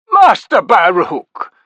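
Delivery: out of breath from pushing through the crowd; breathless. A narrator's reading. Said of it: "he said breathlessly".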